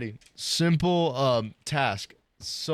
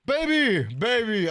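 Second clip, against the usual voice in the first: put-on high, loud wail for the baby; crying out; 8 semitones higher, 5 dB louder, slower than usual. Babysitter finding the baby, crying out. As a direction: cry out high and falling.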